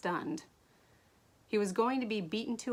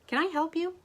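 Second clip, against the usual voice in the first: icy, high and clipped-off question; cold question; 10 semitones higher, 4 dB louder than usual. Acted. Diamond coldly asking her cousin what he wants. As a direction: ask it like you want him gone. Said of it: "Diamond asked coldly".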